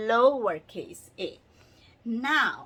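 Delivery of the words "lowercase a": LOWERCASE slow and louder; lowercase stressed. Shown as a demonstration. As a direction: hit lowercase to set it apart. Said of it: "This is uppercase A".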